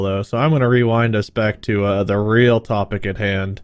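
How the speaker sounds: ordinary talk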